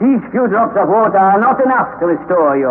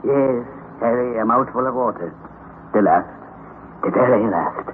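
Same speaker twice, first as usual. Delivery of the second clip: tender; 5 semitones lower than usual. Acted. Uncle tenderly explains saved water.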